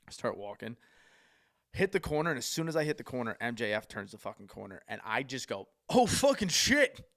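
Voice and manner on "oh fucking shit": much higher, louder, drawn-out shock; star-struck loud cry; shocked exclamation. Retold or imitated. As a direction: blurt it like you just saw a legend. Spotting his idol round corner.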